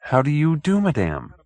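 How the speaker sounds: high, fussy polite greeting; a nervous little gentleman bowing in; timid little man. Acted. Hoag greeting the detective, high and fussy.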